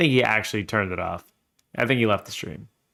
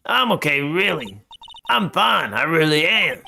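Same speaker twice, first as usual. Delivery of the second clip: put-on higher-pitched girl insisting she's okay; insistent little Pearl; 4 semitones higher than usual. Pearl reassures a worried Mister Nick, insistent. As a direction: play a small girl protesting, pitched up.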